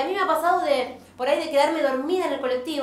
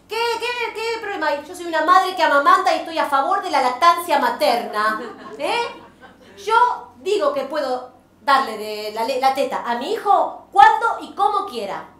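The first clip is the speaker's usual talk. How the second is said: louder, indignant mock speech; mock defiant; 4 dB louder than usual. Mother defending breastfeeding to bus passengers, loud and indignant.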